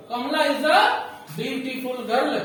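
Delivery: put-on very slow, drawn-out "beautiful girl"; slow dictation. Shown as a demonstration. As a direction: dictate it slowly to the class. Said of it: "teacher slowing example". (धीरे-धीरे बोलकर समझाना)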